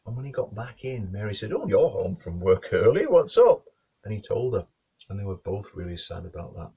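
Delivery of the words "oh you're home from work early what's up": loud greeting rising high at the end; surprised. Acted. Wife greets husband home early, surprised.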